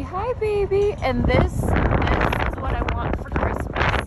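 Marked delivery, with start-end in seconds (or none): 0.0-0.9 talking to a horse. Real, not acted. Greeting a horse.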